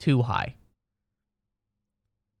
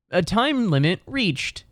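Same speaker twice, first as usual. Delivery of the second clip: slow, higher robotic app voice; robotic phone notice; 6 semitones higher, slower than usual. Retold or imitated. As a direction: read it like the app. Imitating phone notification.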